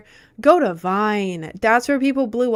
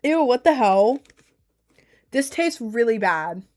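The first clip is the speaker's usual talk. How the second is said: disgusted surprise; 2 semitones higher than usual. Real, not acted. Streamer tasting bad flavored water on stream, disgusted surprise. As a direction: recoil at the taste.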